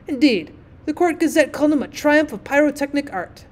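lightly voiced boastful firework; pompous rocket. Rocket boasts of his parents, mildly pompous. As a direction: hold forth with a hint of self-importance.

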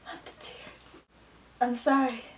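mock breakup. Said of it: "Pretend you're in a serious relationship".

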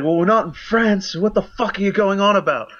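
mock snarky cashier. Friend imitating a sarcastic US cashier, mocking and high. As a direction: sneer it out, pitched well up. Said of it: "He's like".

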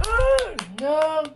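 high, loud cry of dismay. Real, not acted. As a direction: yelp it out like the guess just failed. Kid reacts to a wrong guess.

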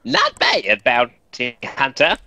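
lightly voiced cartoon villain. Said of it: "he sounded like a children's cartoon villain".

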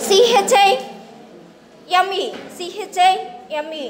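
letters spelled out one by one, slowly; slow spelling out. Shown as a demonstration. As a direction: read the letters slowly for the class. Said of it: "చైమ్ అని పలుకుతాము".

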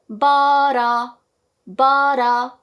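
"but a" joined, no added 어; linked but a. Shown as a demonstration. Teacher modelling the link. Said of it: "어 하지 말고".

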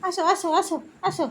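high repeated coaxing call. Real, not acted. Calling the pet to come. (আদুরে ডাক)

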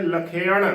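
ਲਖੇਣ said la-khe-an, retroflex n; correct pronunciation. Shown as a demonstration. Teacher answers how it is read, careful pronunciation. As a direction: say ਲਖੇਣ with an extra a before the final n. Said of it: "ਇਸ ਦਾ ਸ਼ੁੱਧ ਉਚਾਰਨ ਕਿਵੇਂ ਕਰਨਾ ਹੈ".

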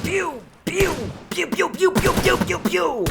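high mechanical bot blasts; robot voice. Acted. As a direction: play a game bot firing. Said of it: "bot taklidi yapacağım".

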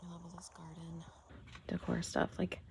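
very soft, whispery aside; talking low. Real, not acted. Shopper browsing garden decor in a quiet store, very hushed. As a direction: say it almost in a whisper. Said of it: "I'm talking kinda low 'cause the store is quiet".

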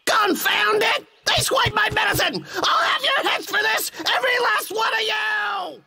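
furious yelling at thieves; angry shouting. Acted. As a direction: bellow threats in a rage. Swiped medicine, threatens animals.

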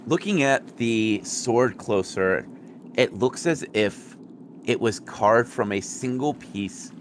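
slow, measured scene-setting narration; game master's description. Acted. Game master describing the found sword to players, slow narration. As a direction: describe the treasure slowly, phrase by phrase.

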